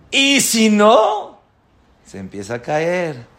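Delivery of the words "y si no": dramatic pause. Real, not acted. Dramatic warning build.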